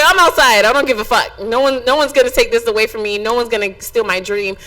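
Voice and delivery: defiant declaration. Retold or imitated. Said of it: "I was like".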